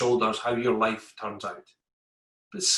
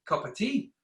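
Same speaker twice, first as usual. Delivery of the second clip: laid-back workmates; 9 semitones higher than usual. Retold or imitated. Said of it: "They're like".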